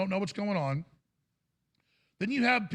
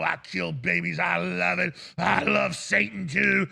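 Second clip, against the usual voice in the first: slow, louder mock demon gloat; mock demonic voice; 4 dB louder, slower than usual. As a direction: ham up a gloating devotee. Quoting abortion doctors.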